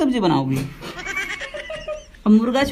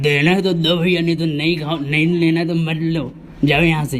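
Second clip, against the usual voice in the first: lower, dismissive shopkeeper voice; thick butcher voice; 4 semitones lower than usual. Acted. Butcher refusing to haggle, in a lower dismissive voice. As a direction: brush off the customer as a gruff butcher. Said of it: "ये जो मोटा आवाज़ आ रहा है".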